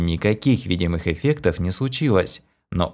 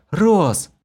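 high call; 10 semitones higher, 3 dB louder than usual. A narrator's reading. Kira calls.

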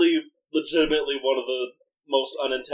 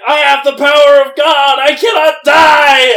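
mock shouting; 11 semitones higher, 12 dB louder than usual. Imitating the man yelling at drive-thru customers, shouting. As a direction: proclaim it like a madman at the drive-thru. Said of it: "yelling at people in the drive-thru".

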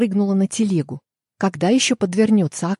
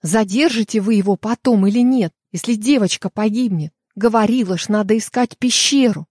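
louder, pressing plea; urgent insistence; 3 semitones higher, 4 dB louder than usual. Acted. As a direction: push hard, time is running out.

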